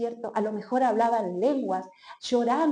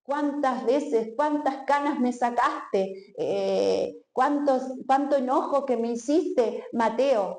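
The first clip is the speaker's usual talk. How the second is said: slow, exaggerated scolding lament; mock scolding; 3 semitones higher, slower than usual. Preacher imagining Jesus scolding Mateo, slow hammed-up reproach. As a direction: drag out the complaints like a weary scolder. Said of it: "no era retando".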